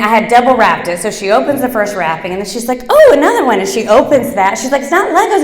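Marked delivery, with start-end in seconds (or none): 2.9-3.6 put-on high surprised kid voice, louder; child finding another layer; young girl's delighted surprise; excited little girl. Child opening double wrapping. 4.8-5.4 put-on high eager kid voice; excited little girl. Child realizing gift.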